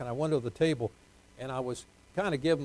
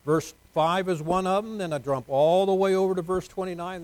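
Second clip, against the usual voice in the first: raised, higher preacher's voice; energetic pulpit delivery; emphatic preaching; 4 semitones higher, 5 dB louder than usual. Real, not acted. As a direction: call out the verses to the congregation.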